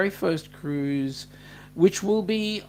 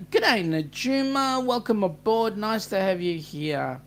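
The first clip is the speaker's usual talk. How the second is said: cheery welcome; 3 semitones higher than usual. Real, not acted. Welcoming a new viewer.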